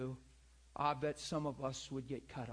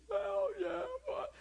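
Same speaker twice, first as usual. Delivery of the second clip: high, crying voice of a caller; mock tearful reply; 3 dB louder, slower than usual. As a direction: let the voice crack into tears. Caller breaking down.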